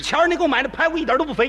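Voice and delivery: fast, clipped mock dressing-down from the boss; mock stern scolding. Director scolding his underling over the ribs, fast and mock stern. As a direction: rattle it off like a boss telling him off. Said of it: "批评我严格极了".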